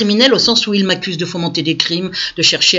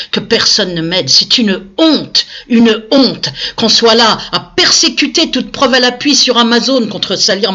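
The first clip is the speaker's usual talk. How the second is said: outraged, louder and higher as it builds; real indignation; 4 semitones higher, 4 dB louder than usual. Real, not acted. Woman denouncing to viewers that nobody helps her, indignant. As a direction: hammer out the outrage, rising in pitch.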